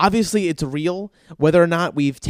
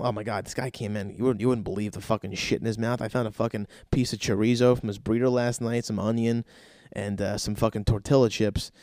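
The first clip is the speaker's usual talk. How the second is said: much softer, hushed gossip voice; gossiping staff; 5 semitones lower, 6 dB quieter than usual. Retold or imitated. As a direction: dish the dirt quietly behind his back. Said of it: "people will talk about".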